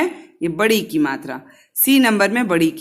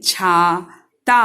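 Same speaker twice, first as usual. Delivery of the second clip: slow stressed demo; 3 dB louder, much slower than usual. Shown as a demonstration.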